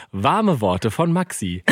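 slow, announcer-like title; rubric title voice. Shown as a demonstration. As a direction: present it like a show segment. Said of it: "neue Rubrik ein". (wie ein Rubriktitel angekündigt)

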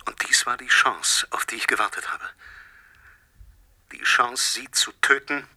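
hushed and threatening; menacing whisper. Acted. Poisoner reveals his plan to the scientist, menacing whisper. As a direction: whisper the death sentence.

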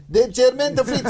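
mock Italian accent.

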